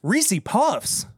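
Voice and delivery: high-pitched disbelieving question; astonished double-take; surprised echo. Real, not acted. Reacts to the snack reveal.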